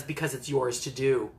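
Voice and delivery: lightly voiced old wizard, settling it; wise Gandalf. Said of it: "And Gandalf says".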